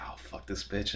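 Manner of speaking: muttered under the breath while peering out; a hushed, unvoiced curse at the door; whispered curse behind the door; whispered aside. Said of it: "I was like".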